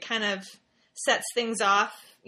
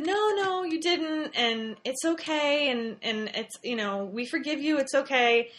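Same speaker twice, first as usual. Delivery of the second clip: higher, gentle soothing reassurance; reassuring mom; 3 semitones higher than usual. Retold or imitated. Mom comforting her sobbing daughter, gentle reassuring. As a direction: comfort a crying child. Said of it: "And I said".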